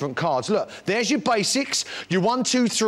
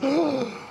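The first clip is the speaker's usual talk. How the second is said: mock gasp; 6 semitones higher than usual. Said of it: "And he goes".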